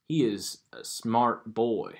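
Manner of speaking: slow Southern drawl; measured, drawn-out Southern accent; Daniel Craig. Retold or imitated. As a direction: imitate a smart Southern detective. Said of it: "like Daniel Craig's character".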